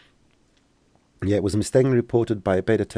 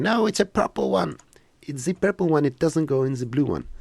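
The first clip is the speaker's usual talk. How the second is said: high, hammed-up frantic correction; mock screaming developer; 8 semitones higher than usual. Imagining a Maxon developer yelling at him, mock high voice. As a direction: play an exasperated Maxon dev, half-hearted yell. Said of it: "Someone at Maxon is screaming".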